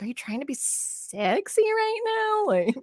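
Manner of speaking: squeaky, scandalized plea to stop; disgusted Daniel Radcliffe impression. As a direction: act deeply disturbed by her flirting. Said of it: "the way he said it was so good".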